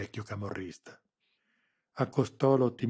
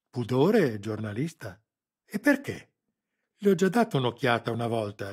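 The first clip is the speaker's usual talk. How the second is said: sly mockery; 2 semitones higher, 8 dB louder than usual. A narrator's reading. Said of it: "un'espressione sorniona".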